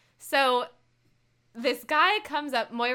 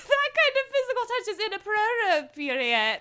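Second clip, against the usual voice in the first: Moira voice; 9 semitones higher than usual. Retold or imitated. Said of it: "And then she goes".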